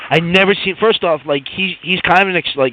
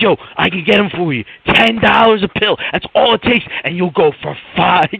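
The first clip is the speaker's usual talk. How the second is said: lightly imitated salesman, pitched up. Coworker offering pills to his workmate, mock salesman pitch. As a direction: pitch it like an eager salesman, half-acted. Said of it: "He's like a salesman".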